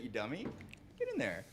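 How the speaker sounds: teasing insult, not meant; mock negging. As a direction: imitate a barker bullying the customer. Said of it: "threw in a little Marvel negging".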